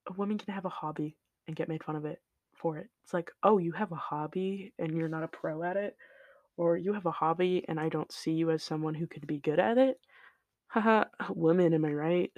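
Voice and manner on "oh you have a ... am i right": mock condescending commenter; lightly voiced dismissive scoffer; mocking sexist commenter. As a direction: put on a mildly patronizing jeer.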